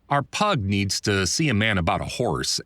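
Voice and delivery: usual speaking voice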